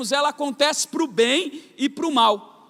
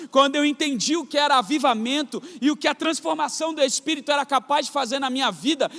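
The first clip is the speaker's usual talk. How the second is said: normal talking voice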